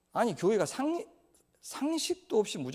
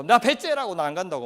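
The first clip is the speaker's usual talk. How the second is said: stubborn defiance; 5 dB louder than usual. Acted. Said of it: "배째라 선생이라고".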